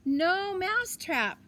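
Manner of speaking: high, slow gasp of disbelief; shocked disbelief. A narrator's reading. Narrator staring at the empty spot, slow shock. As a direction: stretch it out, unable to believe it. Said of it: "She couldn't believe her eyes".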